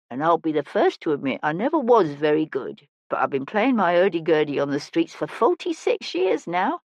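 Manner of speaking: lightly voiced old woman reminiscing; a hint of a frank old busker; older street musician. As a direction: tell your life story simply, as the old woman. Older blind woman tells her story.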